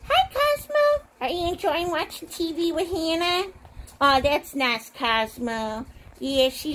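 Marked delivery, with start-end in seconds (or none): 0.1-3.5 sweet high phone greeting. Pretend. Pretend phone call.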